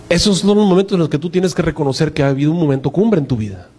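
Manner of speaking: ordinary talk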